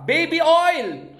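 high, drawn-out punchline with a hammed-up twist; joke punchline. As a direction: stretch the punchline "Baby oil!" slowly and high to sell the joke. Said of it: "ito, joke time".

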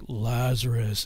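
imitating the singer's low call of "Lazarus"; deep summoning voice. Friend retelling the song's deep voice calling Lazarus. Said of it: "he does this deep voice like".

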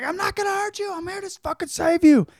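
high squeaky reassurance, hammed up; mock reassuring. Man to frightened woman, hammed-up high soothing voice. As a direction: squeak it out like a creepy rescuer.

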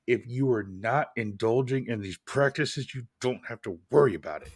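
a hint of a stern dad. Real, not acted. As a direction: lightly slip into a dad's lecturing tone. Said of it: "I said that in my dad voice".

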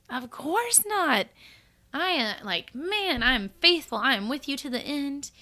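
lightly hammed-up boast of loyalty; overconfident vow. Voicing overconfident Peter and believers.

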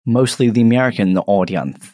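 hint of a badly faked American accent. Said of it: "really bad American accent".

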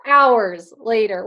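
drawn out, pitch dropping. Shown as a demonstration.

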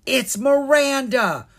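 high, loud, drawn-out astonishment; gasped shock. A narrator's reading. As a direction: exclaim it with a gasp. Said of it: "Kara said with a gasp".

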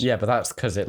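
light Essex accent put on. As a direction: speak in a mild Essex accent. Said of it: "I'm doing an Essex accent".

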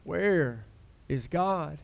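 soft, low mock complaining where is God; hushed grumbling question; quiet complaint. Shown as a demonstration. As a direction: mutter it like a sulky complaint.

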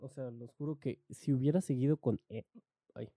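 breaking off with a hiccup. Real, not acted. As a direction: hiccup interrupting the words. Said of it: "Tengo hipo, perdón".

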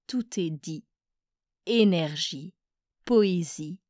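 measured poem reading, pauses after each verse; poetry recitation. Acted. Presenter reads the featured poet's verses to listeners, poetry recitation. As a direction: recite verse by verse, letting each line settle.

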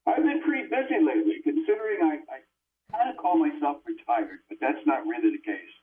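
muffled tinny phone mic. Real, not acted. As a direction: sounds like talking in a tin can. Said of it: "you sound like you're in a tin can".

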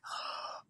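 a quick frightened intake of breath, no voice; retold gasp of panic; sharp gasp. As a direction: gasp like dread just hit. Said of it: "And I was like".

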